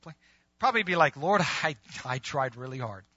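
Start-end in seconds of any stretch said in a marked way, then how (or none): 1.2-3.0 sheepish excuse. Acted. Imagined weak answer to God.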